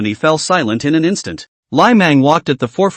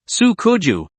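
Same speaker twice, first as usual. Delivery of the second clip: raspy, higher call from afar; hoarse voice; 4 semitones higher than usual. A narrator's reading. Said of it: "a hoarse voice".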